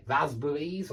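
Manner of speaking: northern English short a in "raspberries"; northern UK pronunciation. Shown as a demonstration. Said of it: "It's an ah".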